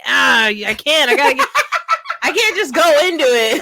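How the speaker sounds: giggling nervously, words breaking up; laughing. Real, not acted. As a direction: laugh through the excuse. Nervous before doing pirate voice.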